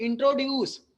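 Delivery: "इंट्रोड्यूस" as pupils say it, weight on इंट्रो; stress on intro. Retold or imitated. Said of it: "कई सारे बच्चे बोलते हैं". ("इंट्रोड्यूस" में इंट्रो पर ज़ोर)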